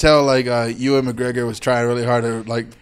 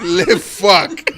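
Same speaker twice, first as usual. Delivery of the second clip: put-on French accent; 3 semitones higher than usual. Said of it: "subtitle gibberish".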